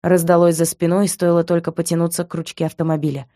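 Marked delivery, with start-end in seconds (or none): none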